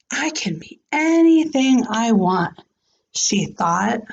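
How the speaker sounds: clear, expressive read-aloud voice; story narration. A narrator's reading. Teacher reading a storybook aloud to her class, expressive. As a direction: read the picture book to the class.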